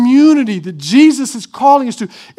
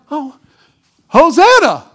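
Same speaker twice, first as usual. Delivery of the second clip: excited crowd member; 3 semitones higher, 3 dB louder than usual. Retold or imitated. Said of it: "those who are in the crowd are like".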